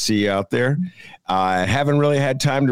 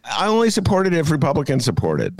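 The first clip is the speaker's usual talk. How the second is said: Sinema impression; 7 semitones higher than usual. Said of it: "Senator Sinema in Arizona".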